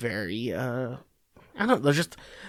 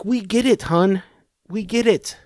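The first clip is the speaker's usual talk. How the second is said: higher, patronising we-get-it; tired, condescending brush-off; mock weary; 6 semitones higher than usual. Harris to Pelosi about her clapping, weary and patronising.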